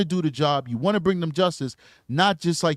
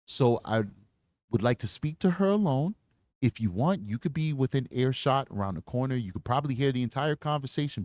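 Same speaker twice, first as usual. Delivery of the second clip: calm and respectful; 3 semitones lower, 4 dB quieter than usual. Shown as a demonstration. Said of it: "That's how you talk to that guy".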